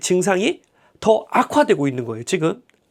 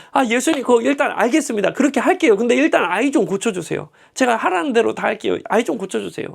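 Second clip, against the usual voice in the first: pleading father; 4 semitones higher than usual. Retold or imitated. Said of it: "저 같으면".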